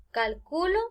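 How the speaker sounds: calculo as cal-CU-lo; accent the CU in calculo; stress on middle syllable. Shown as a demonstration. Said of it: "Y acá hay otro ejemplo".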